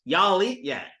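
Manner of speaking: "Y'all eat yet?" with no d before "Y'all"; casual "Y'all eat yet?", d dropped. Shown as a demonstration. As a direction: start straight on the y of "Y'all". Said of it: "the duh drops".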